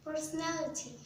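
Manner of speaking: Personality in an American accent, dropping the vowels to psnlti. Shown as a demonstration. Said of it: "how to pronounce personality in American accent".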